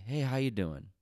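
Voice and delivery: overly bright, pointed hello; fake-friendly greeting that means back off; a loud, high mock-cheery hey; passive aggressive greeting. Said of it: "that was my passive aggressive way of saying".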